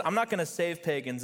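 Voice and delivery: lightly voiced defiant Jonah, leaning on "not". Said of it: "Jonah says".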